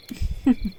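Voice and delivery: soft, knowing little laugh; short chuckle. Acted. Luring someone to the car, soft chuckle. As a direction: chuckle under the breath. Seductress chuckles at her target.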